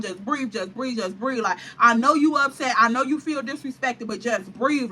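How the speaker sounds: coaxing her to just breathe; soothing plea. Retold or imitated. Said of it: "He trying to plead with me to calm down".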